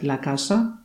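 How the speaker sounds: "la casa" said as Spanish with a soft, clear s; careful Spanish. Shown as a demonstration. Teacher shows a Polish class a Spanish word, careful Spanish. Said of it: "rodzaju żeńskiego".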